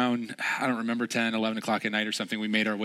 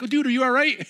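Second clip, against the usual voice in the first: much higher, louder concern; retold worried shout; 7 dB louder, faster than usual. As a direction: call to a fallen buddy in the dark. Friends call out in dark.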